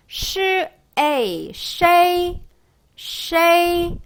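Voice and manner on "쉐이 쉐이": 쉐이 high with 에 stressed and 이 light; pinyin xei demo. Shown as a demonstration. Teacher modeling the syllable, raised and clear. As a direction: glide 쉐이 smoothly, the second one slow. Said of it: "쉐이 이렇게 발음이 되고요".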